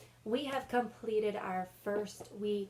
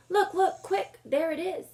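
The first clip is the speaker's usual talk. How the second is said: much higher, louder eager rush with a laugh; urgent hushed-excited pointing out; excited spotting; 10 semitones higher, 8 dB louder than usual. Acted. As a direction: Susan urging the others to look. Susan spots the animal.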